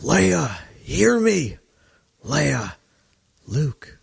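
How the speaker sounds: imitating a distress call, high drawn-out cries; plaintive calling out. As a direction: call out to someone far away, pleading. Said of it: "uses the Force to call out to Leia".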